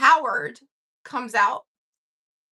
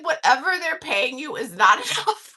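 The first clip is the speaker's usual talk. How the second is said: real laugh on the punchline; breaking into laughter. Real, not acted. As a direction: start straight, crack up before the end. Cracking up at punchline.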